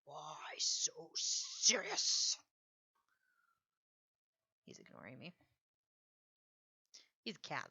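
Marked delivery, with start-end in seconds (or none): 0.1-2.4 slow whisper. Pretend. Eerie quote whispered into the mic.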